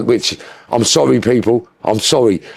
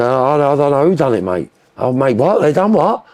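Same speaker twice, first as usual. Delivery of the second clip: mock Londoner gossip; 2 semitones higher than usual. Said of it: "Where London say".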